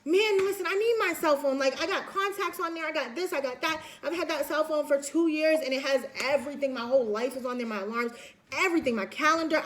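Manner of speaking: a student's upset rant over a missing cell phone; mock angry. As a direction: rant like someone who just lost their phone. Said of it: "You're, you're angry".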